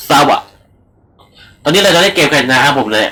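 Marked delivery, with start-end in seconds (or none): 0.1-0.4 imitated choppy audio. Shown as a demonstration. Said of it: "ก็คือแบบ".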